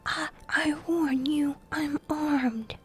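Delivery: understated shout, drawn out; mild shout. A narrator's reading. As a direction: call out a halting warning to an intruder. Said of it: "he shouted".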